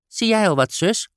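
put-on high, eager little girl asking her sister; a curious child peering over the water; young girl voice. Girl Ellie asks on boat. (hoog meisjesstemmetje, nieuwsgierig)

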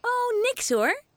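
high, slow, casual brush-off; girl acting tough to papa; tough cool reply. A narrator's reading. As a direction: play it cool, nothing to see. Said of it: "zegt Fien stoer".

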